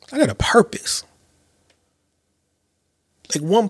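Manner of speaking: intense whisper of resolve; a hushed, earnest vow. Real, not acted. Whispered declaration.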